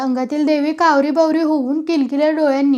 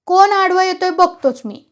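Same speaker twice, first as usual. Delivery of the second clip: high, louder defiant challenge; shouted challenge; 6 semitones higher, 5 dB louder than usual. A narrator's reading. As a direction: shout down anyone in the way. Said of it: "भाऊ ओरडून म्हणाला". (ओरडून आव्हान देत)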